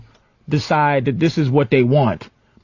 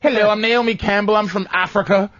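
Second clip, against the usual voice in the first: put-on higher, laughing French Colombian accent; mocking French Colombian accent; 6 semitones higher than usual. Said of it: "She just come in here".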